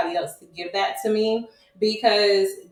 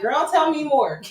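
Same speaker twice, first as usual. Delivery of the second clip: eager sisters; 7 semitones higher than usual. Retold or imitated. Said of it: "they're like".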